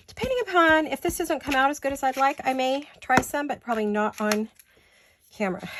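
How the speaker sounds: slightly out of breath; talking short of breath. Real, not acted. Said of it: "I'm a little out of breath".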